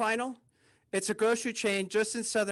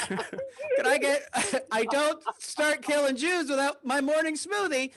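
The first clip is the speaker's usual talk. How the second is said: hammed-up Hitler, stretched and laughing; a laughing, overdone dictator voice; bad Hitler impression; 5 semitones higher than usual. Comedian redoing his Hitler bit, laughing and higher. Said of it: "Sorry, that was bad".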